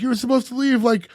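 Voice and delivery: retold yell. Imitating a son berating his father, mildly yelling. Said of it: "he's, like, yelling at his window".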